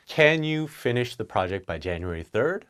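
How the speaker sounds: polite rising question; a polite question to a colleague; nicer request. Shown as a demonstration. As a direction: ask it nicely. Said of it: "That's a lot nicer".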